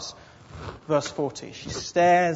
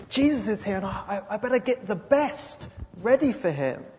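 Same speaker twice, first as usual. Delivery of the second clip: fussing hostess; 4 semitones higher than usual. Acted. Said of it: "She's thinking".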